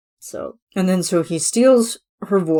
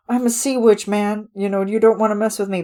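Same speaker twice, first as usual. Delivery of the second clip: higher, quick bravado; mock tough sea witch; 4 semitones higher than usual. Ursula warning off the chef, hammed-up bravado. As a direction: bluff toughness while scared. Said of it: "Like, it's like".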